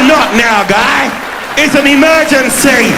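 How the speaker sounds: a touch of mock panic; urgent retort. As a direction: cut him off, it's an emergency. Urgent reply to policeman.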